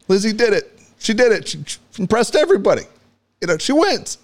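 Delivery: high, choked-up gushing over the heroine; teary pride. Retold or imitated. Dad explaining to his son, high and teary with pride. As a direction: gush like a proud, weepy fan. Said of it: "And then I was like".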